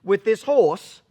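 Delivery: mock furious tirade; retold angry cussing. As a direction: chew him out like an angry boss. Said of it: "cusses me out".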